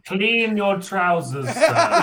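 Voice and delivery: laughing. Pretend. Laughing mock reply.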